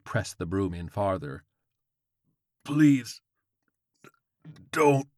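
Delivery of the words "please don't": raised, halting begging; dying plea. Acted. Impaled old man begs George, strained halting plea. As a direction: beg with a long pause between words.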